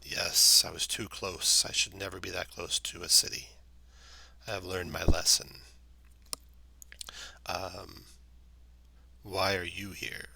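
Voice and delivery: put-on weary old tree, unhurried; talking tree. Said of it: "speaks in a slow, slow voice".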